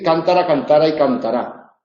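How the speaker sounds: cántara stressed on the first syllable, cantara on the middle, cantará on the last; stress contrast. Shown as a demonstration. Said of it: "El acento fonológico sirve para distinguir".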